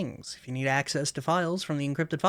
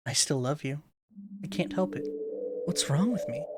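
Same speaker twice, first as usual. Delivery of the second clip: remorseful Monika. Acted.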